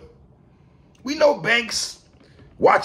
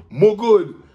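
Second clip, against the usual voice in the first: put-on brief Jamaican accent; a quick touch of Jamaican; 6 dB louder than usual. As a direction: say it with a light Jamaican lilt. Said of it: "in my Jamaican voice".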